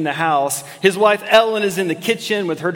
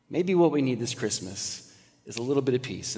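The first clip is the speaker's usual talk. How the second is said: softer repeat with weight on what; 5 semitones lower, 8 dB quieter than usual. Acted. Preacher repeating line to congregation, softer. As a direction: say it again, softer.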